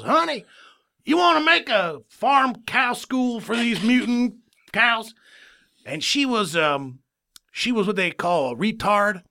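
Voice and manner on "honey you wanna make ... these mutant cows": stupid dad. Acted. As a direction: play a dim father pitching an idea to his wife. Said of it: "my dad, the, the stupid man he is".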